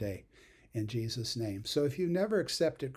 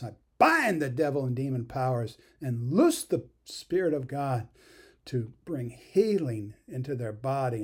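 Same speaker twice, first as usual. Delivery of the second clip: fierce commanding prayer; 3 dB louder than usual. Real, not acted.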